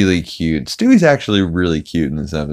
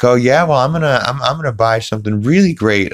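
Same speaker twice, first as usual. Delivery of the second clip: higher-pitched, boastful cartoon impression; Peter ranting; 7 semitones higher than usual. Peter bragging to his friends about his tax refund, mock rant. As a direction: imitate a blustering cartoon dad on a rant. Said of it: "he's like, on a rant".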